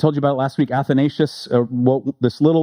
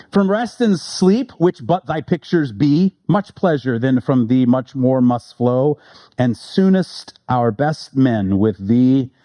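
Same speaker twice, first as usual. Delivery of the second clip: slow, measured recitation of the sonnet; poem reading. Acted. Preacher reciting Donne's sonnet to the congregation, slow and measured. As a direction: read it like verse from the pulpit.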